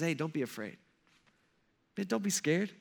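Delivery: softly voiced calming words; quiet, understated comfort in retelling; gentle reassurance. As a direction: reassure frightened friends, quietly. Voicing Jesus calming frightened disciples.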